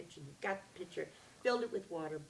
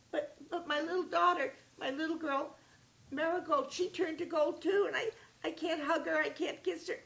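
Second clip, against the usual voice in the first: high, loud, stammering despair; pleading over the lost daughter; desperate king; 10 semitones higher, 5 dB louder than usual. Acted.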